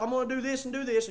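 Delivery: quick, mildly pumped-up self-talk; acted eager self-talk; fired up. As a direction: psych yourself up, talking fast. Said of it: "You get fired up".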